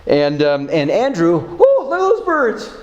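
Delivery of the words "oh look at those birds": evasive distraction. Retold or imitated. Disciple dodging the question.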